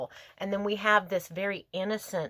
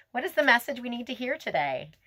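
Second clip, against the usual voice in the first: lifted, higher appeal to the fairies; asking the spirits; 5 semitones higher than usual. Real, not acted. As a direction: call the question up to the spirits. Asks spirits for card message.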